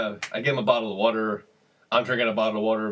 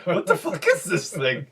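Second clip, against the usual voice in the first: confused dealer; 5 semitones higher than usual. Retold or imitated. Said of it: "He's looking at it like".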